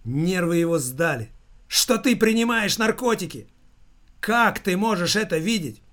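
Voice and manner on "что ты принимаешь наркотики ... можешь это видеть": agitated, higher-pitched outburst; hysterical shout. A narrator's reading. Son disputes his mother's drug accusation, mildly hysterical shout. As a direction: protest in hysterical disbelief. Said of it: "не менее истерично закричал он".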